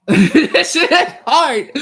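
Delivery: put-on slow, high, laughing Finnish accent; hammed-up Finnish accent breaking into laughter. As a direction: giggle through a Finnish accent. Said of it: "in his little accent or whatever".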